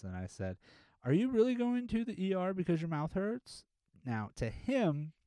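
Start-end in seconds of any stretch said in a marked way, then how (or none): 1.0-3.6 incredulous. Retold or imitated. Incredulous question to the patient.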